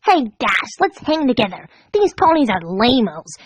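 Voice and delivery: lightly voiced sneering griffin; mock her tough talk; mimicking Gilda. Pinkie mimicking Gilda's old taunts at Dash. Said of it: "Pinkie mimicked".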